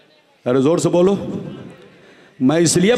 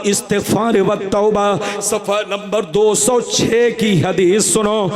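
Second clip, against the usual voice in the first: booming political rally speech. Acted.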